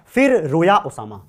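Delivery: slow, spaced फिर रोया ओसामा; slow mnemonic. Shown as a demonstration. Teacher giving a memory trick to the class, slowly. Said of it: "दोबारा सुनेंगे".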